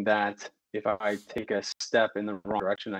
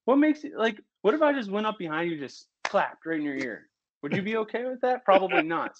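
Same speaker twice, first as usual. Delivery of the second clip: high, fast indignant rant; building into a tirade; heated rant; 8 semitones higher than usual. Real, not acted. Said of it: "going on that tirade".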